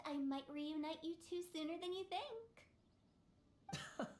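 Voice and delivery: cheerful, slow menace; smiling threat. Acted. Director teasing Meng with a smiling, slow threat. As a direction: threaten sweetly with a smile. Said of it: "with that smile on your face".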